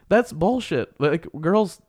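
indignant, pitch jumping high with incredulous laughs; exasperated. Real, not acted. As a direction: protest at how unfair it is, voice climbing. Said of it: "so it makes me mad".

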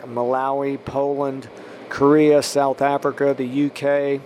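measured blessing in an even tone; spoken prayer. Real, not acted. Podcast preacher blessing listeners country by country, prayerful. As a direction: pray down a list of places, evenly.

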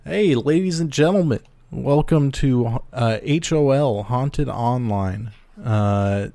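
slow, showy host voice; try-hard cool guy drawl. Acted. Hosts show intro in put-on voice.

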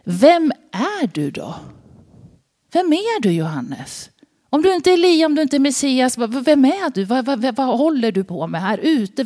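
high, insistent, pressing questions from the envoys; the delegation questioning. Acted. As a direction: demand an answer, pitch climbing on vem är du. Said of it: "då får ni lyssna". (prästernas krävande, höga frågor)

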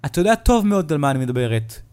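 accusing him sharply; stern mother. Acted. Mother scolding son. (אמא נוזפת בכעס)

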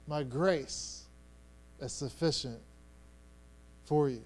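low, soft, measured words with long pauses; gentle reassurance. Acted. God answering Paul's plea, gently reassuring. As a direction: reassure tenderly, letting each phrase settle.

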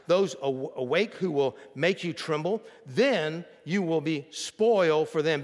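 measured, emphatic scripture reading. Acted. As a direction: read the verse out to the congregation with weight. Reads scripture aloud.

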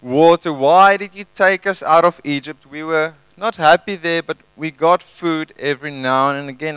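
a touch of whiny complaining; mock moaning Israelites. Israelites moaning at Moses, light whiny complaint. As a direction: lightly play the grumbling crowd. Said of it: "they're moaning all the way".

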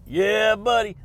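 loud, hyped cheer; loud catchphrase. Real, not acted. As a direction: shout it like a hype man. Shouted catchphrase.

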